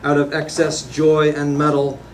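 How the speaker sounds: incantatory list-like poem recital; poetry reading. Acted. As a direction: declaim each phrase evenly, firmly projected. Reads own poem aloud.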